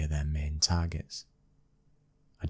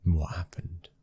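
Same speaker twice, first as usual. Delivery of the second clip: hushed whispered question; whispering to his wife. Acted. Wife reacts, he asks softly.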